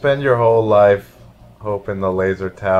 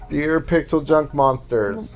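slowly dictated, slightly raised pitch; a hint of a kid writing carefully; mock child's letter; 5 semitones higher, slower than usual. Player dictating a pretend fan letter to the game, mock childlike.

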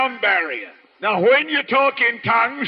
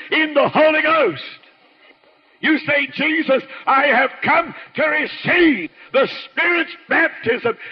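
raised, driving pulpit voice; fervent preaching; 2 semitones higher than usual. Acted. Preacher urging the congregation to receive the Spirit, fervent.

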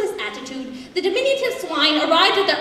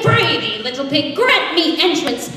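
wolf calling out with a touch more volume; 4 dB louder than usual. Acted. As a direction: call to the pig, drawing out the request. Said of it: "He called out to the straw-staunch swine".

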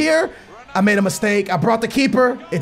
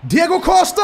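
goal shout; 8 semitones higher than usual. Real, not acted. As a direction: yell the scorer's name in joy. Striker scores a goal.

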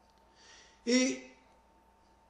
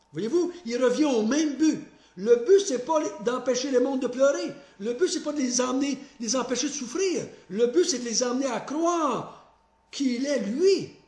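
laughing emphasis; 3 semitones higher than usual. Real, not acted. Preacher's point, with laughter.

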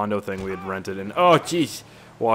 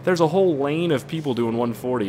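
ordinary talk, nothing marked

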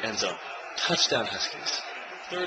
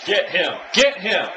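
urging shout; 4 semitones higher, 4 dB louder, slower than usual. Real, not acted. Urging the defense.

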